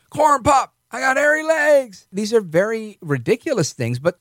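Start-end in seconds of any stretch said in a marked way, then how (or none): 0.1-2.1 mock whisper. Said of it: "Then he starts to whisper".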